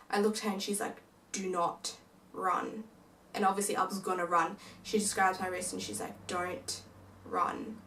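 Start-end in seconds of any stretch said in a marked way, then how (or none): 1.3-2.9 slow, hushed warning; tense whisper. Retold or imitated. Sister grips her sibling and whispers a slow warning. 6.3-7.8 breathy, barely voiced plea; urgent whisper. Sister holding a wrist, pleading in a whisper not to run.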